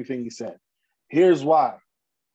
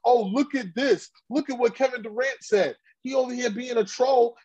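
mocking Rapaport; 7 semitones higher than usual. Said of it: "that's what Michael Rapaport did".

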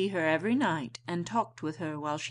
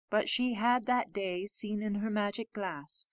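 usual speaking voice

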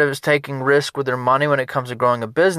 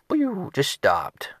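whispered sound effect; 4 semitones higher, 5 dB quieter, much slower than usual. Retold or imitated. Washing machine dies.

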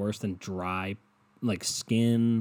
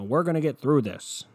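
louder, higher reassuring quote; mock governor; 5 semitones higher, 4 dB louder than usual. Mocking Governor DeWine's reassurances, louder. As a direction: parrot the governor's upbeat line. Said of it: "He's been saying shit like".

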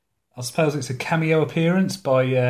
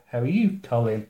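everyday question, pitch up on "How are you"; ordinary question inflection. Shown as a demonstration. Host demonstrating a normal question, ordinary question inflection. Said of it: "you ask a question".

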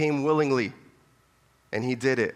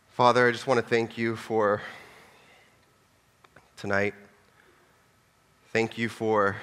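pastor praying aloud for the congregation, earnest; prayer. Real, not acted. Leads closing prayer.

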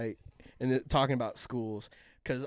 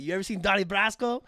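put-on light New York Italian accent, higher pitched; New York Italian-ish accent; 6 semitones higher than usual. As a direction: ask it with a low-key New York Italian lilt. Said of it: "low-key, like, New York Italian-ish accent".

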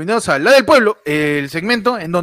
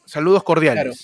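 grand poetry declamation; 4 semitones lower than usual. Acted. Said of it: "Voy a declamar".

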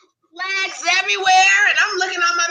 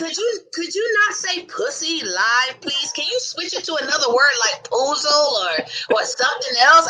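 imitating mama's plea; 4 semitones lower, 3 dB quieter than usual. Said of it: "My mama said".

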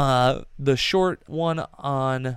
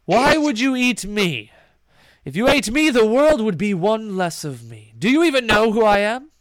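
higher, louder indignant protest; 4 semitones higher, 5 dB louder than usual. Acted. Bard offended at being threatened, indignant. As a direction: bristle with wounded pride.

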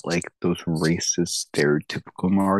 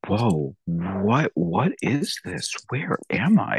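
mock bewildered actor; slower than usual. Mocking the actor's Mario, bewildered and rising. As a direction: play a lost hero with no accent. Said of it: "You're just gonna be like".

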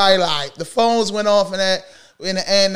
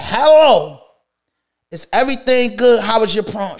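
raised, full-voiced retold question; firm asking; 2 semitones higher, 4 dB louder than usual. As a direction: ask it straight out, no hushed tiptoeing. Retold question repeated, standing straight up.

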